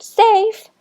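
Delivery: a high, triumphant yell; high victorious shout. A narrator's reading. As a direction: shout it as you slap the base. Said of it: "yelled out".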